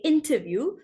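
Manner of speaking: interview the British way, T sounded. Shown as a demonstration. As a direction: keep a crisp T in interview. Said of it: "only the British would say".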